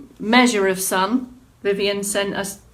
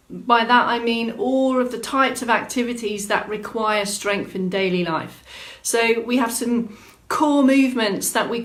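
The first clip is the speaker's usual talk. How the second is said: live fitness presenter; 2 semitones higher than usual. Acted. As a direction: welcome everyone to the movement snack with energy. Opens the live class broadcast.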